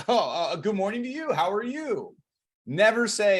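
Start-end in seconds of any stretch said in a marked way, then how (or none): 0.1-2.2 stumbling reply. Acted. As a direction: caught off guard, higher-pitched hesitant greeting. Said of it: "you'll hear them stumble like".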